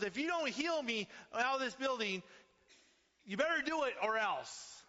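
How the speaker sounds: high, loud defiant demand; loud ultimatum. Retold or imitated. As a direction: shout the ultimatum at God. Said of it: "And he goes".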